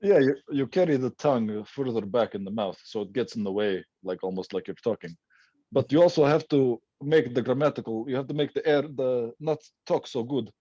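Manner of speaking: put-on Yugoslavian accent; Slavic accent. Shown as a demonstration. Guest teaching hosts the trick, Slavic accent. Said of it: "I can continue like this".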